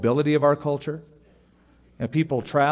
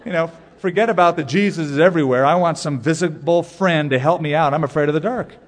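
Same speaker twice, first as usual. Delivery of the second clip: put-on boy's comic plea; 2 semitones higher, 5 dB louder than usual. Boy's thought voiced, comic.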